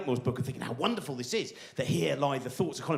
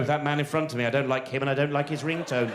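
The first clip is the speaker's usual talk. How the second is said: psychopathic thought; 4 semitones lower than usual. Acted. Commuter eyeing the man in front, psychopathic. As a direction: coldly list your dislikes, pitched low. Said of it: "Sometimes the psychopathic one".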